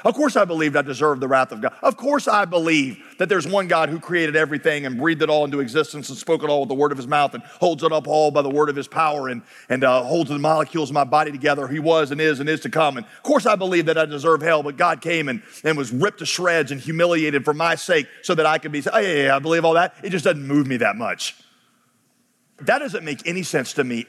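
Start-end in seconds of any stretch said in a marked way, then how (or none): 0.0-18.8 imitating a breezy, dismissive churchgoer; glib believer. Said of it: "who are like". 18.9-21.3 mock offhand agreement, quick then dropping low; breezy, dismissive imitation; glib believer. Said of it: "who are like".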